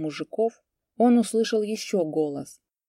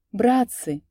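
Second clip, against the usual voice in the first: thin little voice; 5 semitones higher, 5 dB louder than usual. A narrator's reading. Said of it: "тоненьким голоском вдруг заговорил он".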